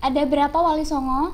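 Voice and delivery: glitchy robotic voice over a bad connection; choppy robot-like call audio. Real, not acted. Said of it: "suaranya kayak robot".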